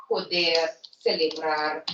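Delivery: poder and celebrar with final R clearly sounded; poder, celebrar, every last letter pronounced; Spanish pronunciation. Shown as a demonstration. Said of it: "pronounce all the".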